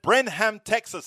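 Brenham said as BREN-ham, both syllables full, stress on the first; Spanish-style Brenham. Retold or imitated. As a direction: Brenham with a clear h and open second a, Spanish style. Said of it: "I said".

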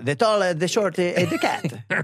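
The tall, the short, the cat in a light Italian accent. Shown as a demonstration. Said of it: "You gotta do the Italian accent".

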